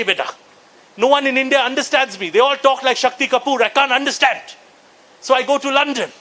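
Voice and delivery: lightly voiced proper Indian uncle, fond and a bit pompous; a hint of an old uncle lecturing his nephew. Uncle telling his nephew why he goes to London, lightly pompous. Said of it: "these uncles always say".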